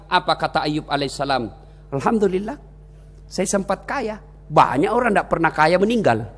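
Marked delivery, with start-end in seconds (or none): 1.9-6.3 calm, contented. Acted. Ayub answering the devil after losing his business, calm. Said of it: "Tenang perasaan".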